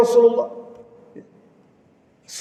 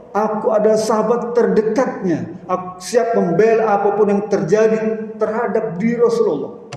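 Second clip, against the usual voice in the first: higher, slow, earnest plea to spare the Prophet; Abu Bakar pleading; 3 semitones higher than usual. Acted. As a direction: stand in front and offer yourself, slowly. Preacher voices Abu Bakar. (suara Abu Bakar memohon dengan sungguh-sungguh, pelan)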